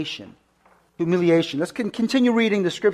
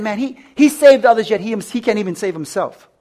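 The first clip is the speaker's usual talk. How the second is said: higher, louder scoffing that settles; mocking; 3 semitones higher, 4 dB louder than usual. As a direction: scoff at him like a religious leader. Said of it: "They mocked them".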